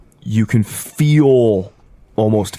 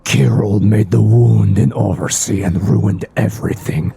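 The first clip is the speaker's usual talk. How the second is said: whispering fish creature. Acted.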